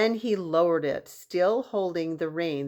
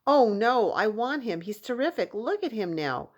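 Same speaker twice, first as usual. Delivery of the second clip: eager refusal; 4 semitones higher than usual. Acted.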